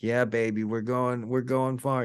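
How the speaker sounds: mock big-shot investor bragging, pitched high; hyped-up stock trader. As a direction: play a guy in a suit hyping a stock tip on the phone. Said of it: "and he's like".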